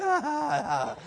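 high, soft falling whine; mock helpless whine. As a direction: let out a lost little whine. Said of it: "we're like".

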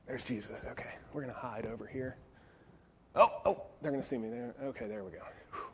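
hushed whisper, quick; sneaky whisper. Acted. Peter hiding from the soldiers, whispering. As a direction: creep and hide, whispering.

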